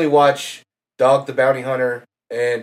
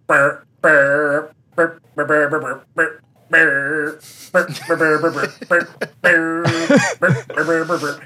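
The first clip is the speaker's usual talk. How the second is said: guitar noise imitation. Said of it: "And it's like".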